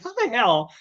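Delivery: high incredulous how the hell; amazed disbelief. Retold or imitated. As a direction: sound floored by it. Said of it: "I'm like".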